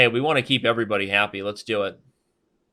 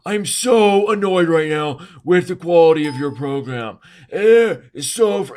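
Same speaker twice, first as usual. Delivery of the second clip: high, loud mock rant of a fed-up viewer; a viewer angry at a random ding, mocked in a high loud whine; annoyed complaining viewer; 6 semitones higher, 6 dB louder than usual.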